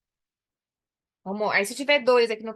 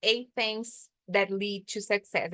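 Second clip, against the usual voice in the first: slow repeat; slower than usual. Shown as a demonstration.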